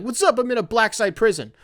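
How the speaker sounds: high, breezy hello voice; cheery greeting. Pretend. Mock returning traveller, cheery and high. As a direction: chirp it like a carefree returnee. Imagined detainee, same greeting.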